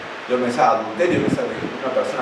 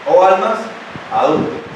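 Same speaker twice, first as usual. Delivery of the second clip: confronting declaration; 6 semitones higher, 4 dB louder than usual. Retold or imitated. Preacher quotes the verse as a declaration, confronting. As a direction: proclaim it as a rebuke. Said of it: "No está diciendo una pregunta".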